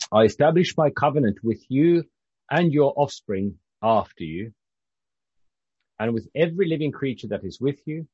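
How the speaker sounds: measured, lifted reading voice; scripture reading. A narrator's reading. Preacher reading God's covenant with Noah, scripture reading. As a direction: read the verses out to a congregation. Reads scripture aloud to congregation.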